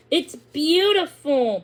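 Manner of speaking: slow, breathy amazement; gasped in wonder. Acted. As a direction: catch your breath at the view. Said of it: "Pippa gasped".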